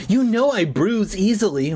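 high-pitched wounded complaint; acted upset outcry; crying out. A narrator's reading. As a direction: protest it high, without real shouting. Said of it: "I cried".

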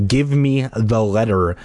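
put-on a touch firmer ghost boy; firm demand. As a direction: demand it, no room to argue. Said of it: "Danny demanded more firmly".

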